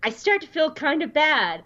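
high, goofy troll voice. Retold or imitated. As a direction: ham it up like a silly troll. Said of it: "dropped into his troll voice and said".

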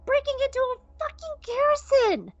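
heated outburst. Retold or imitated. Cassian admits fear, heated.

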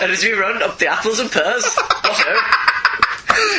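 lightly hammed-up gent, high on the last words; mock British toff. Co-host continuing the villain's speech, mock British toff. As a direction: play along with the old-chap parody. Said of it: "kind of voice, can't you?".

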